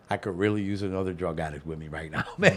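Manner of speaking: laughing it out under the breath. Real, not acted. Laughing at his own bad call, told to friends. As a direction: chuckle through the confession.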